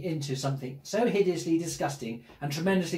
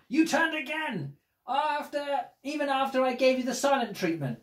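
indignant scolding; 6 semitones higher than usual. Acted. Character scolds child for turning.

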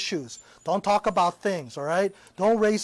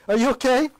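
louder, raised worried question; concerned check; 5 semitones higher, 6 dB louder than usual. Real, not acted. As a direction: quickly check she's alright. Checking on the fallen girl.

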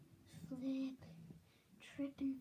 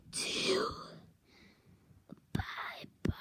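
whispering; slower than usual. Real, not acted. Whispered sign-off.

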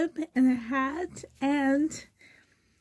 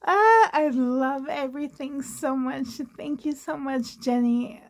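overwhelmed gratitude; 3 semitones higher than usual. Real, not acted. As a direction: thank a friend, overwhelmed by the gift. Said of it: "so overwhelming to me".

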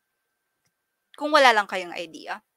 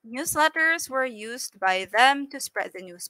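slow reading. Shown as a demonstration. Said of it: "Bakit hindi siya emphatic?".

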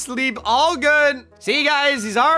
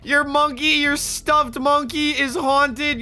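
amused disbelief; 4 semitones higher than usual. Acted. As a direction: react as if you can't believe it. Dad incredulous at monkey claim.

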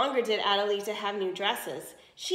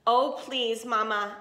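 begging; 4 dB louder, slower than usual. Acted. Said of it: "Adelita begged".

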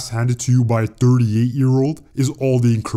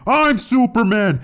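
high indignant claim; 12 semitones higher than usual. Acted. Shaq claiming Superman title.

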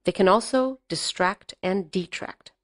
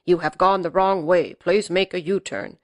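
GPS voice. Retold or imitated. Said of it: "his G P S automated voice".

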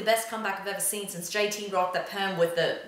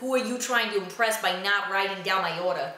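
put-on Mark Wahlberg Boston accent. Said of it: "Inner Mark Wahlberg".

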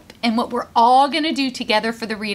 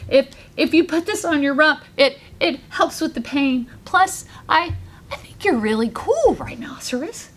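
stammering shy beetle; nervous stutter; 3 semitones higher than usual. Acted. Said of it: "stuttering nervously".

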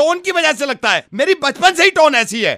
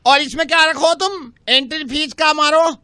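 Angelica; 3 semitones lower than usual. Acted. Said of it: "Angelica's coming".

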